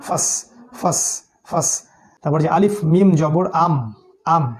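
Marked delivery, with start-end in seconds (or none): 0.1-1.8 ফাস short, "fa" closed at once by "s"; straight into sin. Shown as a demonstration. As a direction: say ফাস without drawing out the vowel. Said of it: "সরাসরি ফা সিনকে গিয়ে ধরবে".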